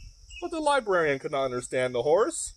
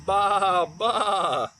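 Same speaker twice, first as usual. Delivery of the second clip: goat bleat. Acted. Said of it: "All she could hear was".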